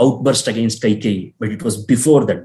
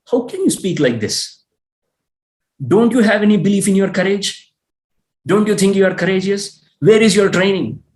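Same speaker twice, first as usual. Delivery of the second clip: higher, indignant protest at his elder brother; angry Lakshmana; 3 semitones higher than usual. Retold or imitated. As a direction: Lakshmana scolding Rama in disbelief. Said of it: "he's bursting out of anger".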